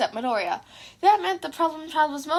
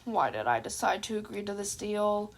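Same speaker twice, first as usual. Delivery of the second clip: softer, lower mumble; despairing mumble; 5 semitones lower, 6 dB quieter than usual. A narrator's reading. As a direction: regret it under your breath. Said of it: "mumbled in pure despair".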